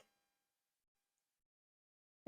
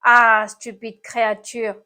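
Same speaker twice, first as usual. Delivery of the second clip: groaning complaint; 7 dB louder than usual. A narrator's reading. Snail scolds the apple that hit it, groaning. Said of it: "gémit l'animal cornu".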